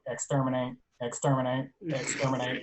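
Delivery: Exterminate shouted in a mechanical robot voice; Dalek robot voice. Pretend. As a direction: play a mild Dalek, stiff and robotic. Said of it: "my best robot voice".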